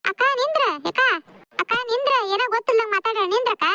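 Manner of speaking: high-pitched plea to wait; urgent appeal. Acted. Urging departing elder sister to wait.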